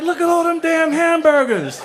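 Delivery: loud, high, brash ghetto voice; acting ghetto. To the rich suite crowd, a loud brash ghetto holler. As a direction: play it up loud and street. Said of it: "I just felt like acting ghetto".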